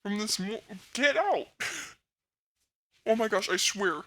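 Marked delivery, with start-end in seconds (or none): 0.0-1.5 loud shouted commands; loud orders. Real, not acted. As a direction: drive them out with loud orders. Chasing sibling out.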